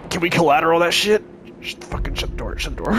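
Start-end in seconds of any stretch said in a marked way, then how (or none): 1.6-2.9 urgent whisper. Real, not acted.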